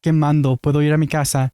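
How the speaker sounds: mocking a Mexican housekeeper's accent. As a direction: parody a Spanish-speaking housekeeper, lightly. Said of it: "let's pretend that's not racist".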